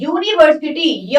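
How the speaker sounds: यूनिवर्सिटी opening clearly on a "y" glide; demonstrating pronunciation. Shown as a demonstration. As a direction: sound out यूनिवर्सिटी from its "yoo" start. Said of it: "य से शुरू हो रही है". (यूनिवर्सिटी का उच्चारण, "य" से शुरू)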